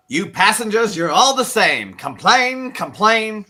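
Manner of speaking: high, loud, whiny complaint; mock annoyed passenger. Quoting Jaws the Revenge to friends, high whiny complaint. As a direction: whine it like a fed-up movie character. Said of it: "number five is from Jaws, the Revenge".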